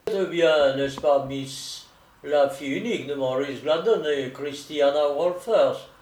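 lightly voiced, emphatic solicitor; questioning solicitor. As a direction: check an identity with a touch of formality. (solliciteur qui interroge, légèrement joué)

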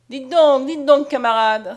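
high, drawn-out hail from behind; crying out. A narrator's reading. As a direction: call out to challenge a comrade. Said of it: "s'écria une voix derrière Mariette".

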